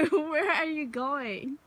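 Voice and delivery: laughing while asking. Real, not acted. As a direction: ask through giggles. Laughing at dog.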